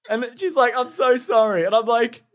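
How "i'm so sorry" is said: higher-pitched retold apology; lightly acted mortified parent; apologetic mum.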